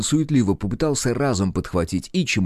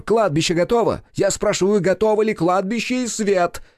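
irate demand; 12 semitones higher than usual. A narrator's reading. Director demanding whether the set is ready, high angry call. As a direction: bark the question at the crew.

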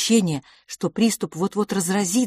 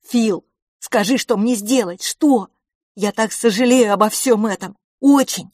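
higher and louder, near tears; desperate pleading boy; 6 semitones higher, 6 dB louder than usual. Acted. Boy begs his silent twin brother, pleading desperately. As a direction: beg him to answer you.

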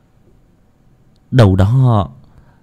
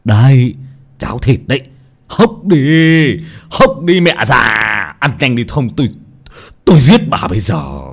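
snapping; 2 semitones higher than usual. Acted. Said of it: "lão vừa quát".

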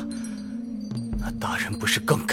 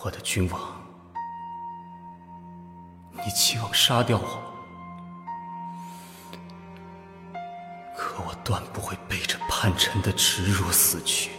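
low, soft and sorrowful; quiet grief; 7 semitones lower, 8 dB quieter than usual. Acted. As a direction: hold back the pain, speak softly. Condemned general facing his king.

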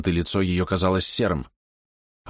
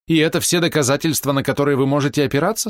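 scornful question; 8 semitones higher, 4 dB louder than usual. A narrator's reading. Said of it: "спросила она с презрением".

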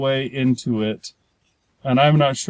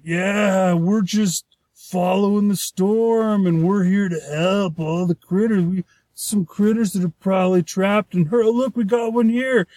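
a touch of a folksy helper voice, higher; breezy, friendly rescuer voice, higher; lightly voiced pterodactyl; 5 semitones higher than usual. Host imitating pterodactyls who claim to help critters, higher folksy voice.

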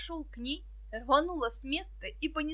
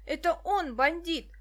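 accusing; 5 semitones higher, 4 dB louder than usual. Acted. Petka accuses the villain.

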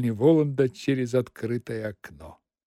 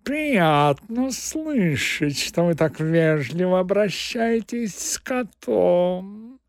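flattered cat; 5 semitones higher than usual. Acted. Cat pleased with master's courtesy, flattered drawling voice. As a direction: savour the politeness like a pleased cat. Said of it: "подтвердил польщённый кот".

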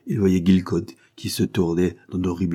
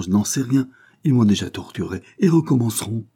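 higher and louder, an agitated captive protesting; tortured engineer protesting, higher and louder; frightened prisoner; 5 semitones higher, 4 dB louder than usual. Acted. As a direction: plead your innocence in a rush of fear.

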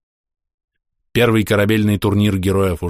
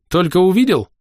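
higher, louder gurgling chuckle; 9 semitones higher, 4 dB louder than usual. Acted. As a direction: bubble the words through a laugh. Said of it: "Со смешком пробулькал я".

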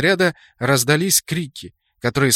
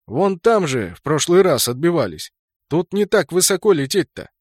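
louder, higher animated pointing out; excited; 4 semitones higher, 4 dB louder than usual. Acted. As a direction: push the point, worked up. Kraken arguing, pointing up.

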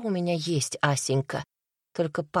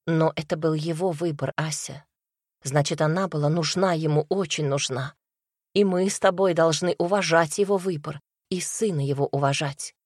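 usual speaking voice

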